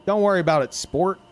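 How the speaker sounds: teasing a kid the way a dad does, lightly hammed; fatherly pet names. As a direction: cheer up a kid like a dad would. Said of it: "Like, what someone would call, like, their kid?".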